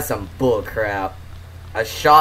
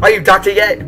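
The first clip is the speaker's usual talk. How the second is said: put-on higher Asian-accented dad voice; 6 semitones higher, 3 dB louder than usual. Dad barging into the kid's room, Asian accent. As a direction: demand it as a strict Asian dad. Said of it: "at least your dad is coming into your room".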